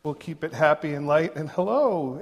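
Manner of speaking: normal talking voice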